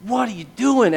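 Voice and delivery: high-pitched incredulous questioning; bewildered protest. Retold or imitated. Believer thrown for a loop questions God, bewildered. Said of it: "And you just go".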